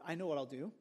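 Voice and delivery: a man plotting to himself, low-key; scheming plan. Retold or imitated. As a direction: hatch the plan under your breath. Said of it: "He goes".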